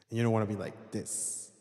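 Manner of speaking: drenched in room reverb; heavy reverb. Shown as a demonstration. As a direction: voice washed in big echo. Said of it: "You can get a little more reverb".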